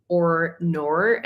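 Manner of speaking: channel catchphrase in teasing Aussie imitation; "or nor", each ending on an Aussie R; mock Aussie accent. Showing viewers the coined phrase, mock Aussie accent. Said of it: "have a coined phrase".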